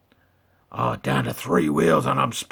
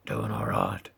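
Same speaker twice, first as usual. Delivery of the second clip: low rasping growl, pitched down; deep Batman growl; gravelly Batman voice; 13 semitones lower, 4 dB quieter than usual. Pretend. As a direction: talk like Batman. Batman voice held.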